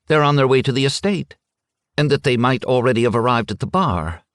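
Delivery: hurrying through her excuse, a touch nervous; nervous wife. Acted. Missus Schmidt nervously explains the bulb to the men.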